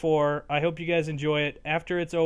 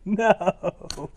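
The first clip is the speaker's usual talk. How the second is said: yelling, much higher and louder, slowed; real anguished yell; 7 semitones higher, 15 dB louder, much slower than usual. Real, not acted. Gamer yells as his ball is lost in the game, anguished shout. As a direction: howl at losing the ball in the game.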